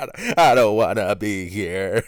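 put-on slow, drawn-out whine of a child; hammed-up crying complaint; mock kid crying. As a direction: imitate a small kid tearfully protesting. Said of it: "He goes from laughing to crying".

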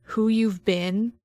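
intense, measured narration with pauses; game master scene setting. Acted. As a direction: lay the character's soul bare, building dread. GM narrates the creature encounter.

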